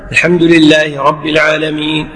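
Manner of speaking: imam's steady lead line; imam reciting. Shown as a demonstration. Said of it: "يتابع إمامه".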